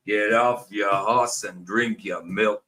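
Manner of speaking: slow, lightly drawled "Get off your horse" in an American cowboy accent; a hint of a slow Western cowboy accent; John Wayne cowboy. Shown as a demonstration. Mimicking John Wayne to Erin in a slow cowboy accent. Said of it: "John Wayne type thing".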